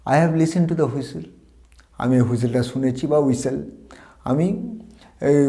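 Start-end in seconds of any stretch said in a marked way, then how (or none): 0.1-1.2 very slow, careful English reading; slow model sentence. Shown as a demonstration. Teacher reading an example sentence to students, very slowly. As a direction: spell it out word by word for learners. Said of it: "as a বাক্য হিসেবে বলতে পারি".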